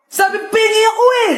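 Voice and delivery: put-on child begs sibling for food, crying; whiny crying kid. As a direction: wail like a kid denied food. Kids fighting over food, crying.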